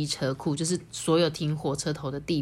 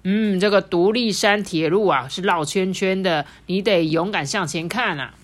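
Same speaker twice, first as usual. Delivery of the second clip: encouraging uncle; 5 dB louder than usual. Acted. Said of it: "在旁边叮咛".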